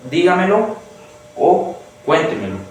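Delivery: dígamelo with DÍ lifted high, then cuéntemelo with CUÉN stressed. Shown as a demonstration. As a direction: hit DÍ in dígamelo and CUÉN in cuéntemelo, then run the rest lightly. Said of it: "según las pronuncio yo".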